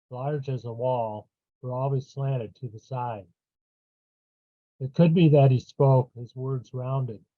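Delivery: measured verse, pausing after each phrase; poetry reading. Acted. Poet reading their own poem to listeners, measured poetry reading. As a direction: open each line firmly, then let it fall away.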